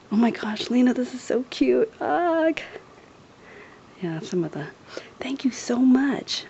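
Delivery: excited, half-whispered gushing; hushed whispering. Real, not acted. Thanking a friend for gifts while others nap, hushed whispering.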